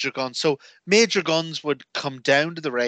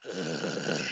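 mock grunt; 10 semitones lower, 11 dB quieter than usual. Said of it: "all you hear be like".

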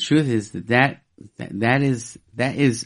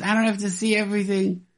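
higher and fast, lightly voiced friend; quick high quote; 9 semitones higher, faster than usual. The short friend's punchline, quick and higher. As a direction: rattle off his punchline higher and faster. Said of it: "He goes".

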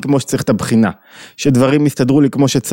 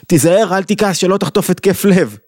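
mock worried warning; 6 semitones higher than usual.

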